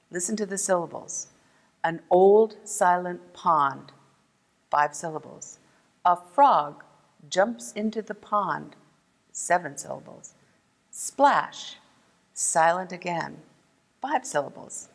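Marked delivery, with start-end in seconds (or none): 1.8-3.9 slow, measured poem reading; haiku recital. Shown as a demonstration. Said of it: "I'm going to repeat that haiku". 6.0-8.7 measured poem reading with pauses; haiku recital. Shown as a demonstration. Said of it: "I'm going to repeat that haiku". 10.9-13.4 haiku recital. Shown as a demonstration. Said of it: "I'm going to repeat that haiku".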